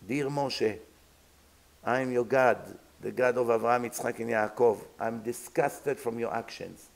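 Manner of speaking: low, measured voice reading a letter from God; God's letter. Acted. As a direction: read out a grave divine note, pitched low. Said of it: "you see a big note coming".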